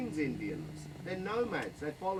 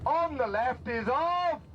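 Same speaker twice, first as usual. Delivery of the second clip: slow, rising tour-guide build-up; milk the suspense as you lead them in; grand announcer's drumroll, climbing toward the reveal; big build-up; slower than usual. Shown as a demonstration. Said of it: "I'll give you a big build-up for it".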